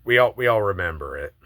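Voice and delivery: emphatic. Real, not acted. Emphatic rallying to fellow gamers.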